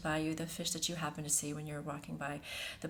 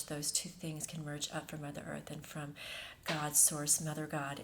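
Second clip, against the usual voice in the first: guided meditation. Acted. Host channels a feminine energy for listeners, meditative and hushed. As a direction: lead them gently into the breath, unhurried.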